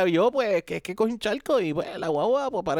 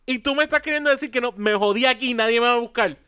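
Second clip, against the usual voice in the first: higher-pitched, incredulous protest; retold indignation; 7 semitones higher than usual. Customer protesting to roadside assistance agent, retold indignation. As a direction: argue back, outraged, pitch up.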